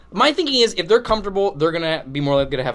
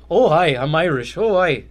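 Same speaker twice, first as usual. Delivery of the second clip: clumsy Irish accent, slightly raised; attempted Irish accent; 2 semitones higher, 4 dB louder than usual. Shown as a demonstration. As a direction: have a shaky go at an Irish accent. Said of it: "Can you do an Irish accent right now?".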